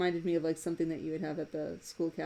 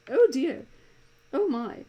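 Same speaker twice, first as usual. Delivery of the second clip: higher and louder, shocked oh dear; aghast oh dear; 7 semitones higher, 10 dB louder than usual. Shown as a demonstration. Demonstrating a cartoon character's aghast reaction, hammed up. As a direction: gasp it out, suddenly aghast. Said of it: "nobody actually does this when".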